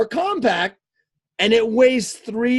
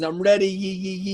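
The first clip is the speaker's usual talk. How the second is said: playful read-out; 3 semitones lower, 3 dB quieter than usual. Retold or imitated. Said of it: "I like Christians".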